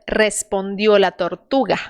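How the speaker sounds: "Respondió" with a short trilled R; rolled R. Shown as a demonstration. Teacher models the trilled R. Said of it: "R vibrante".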